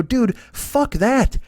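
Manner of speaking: mock scoff. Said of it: "I go".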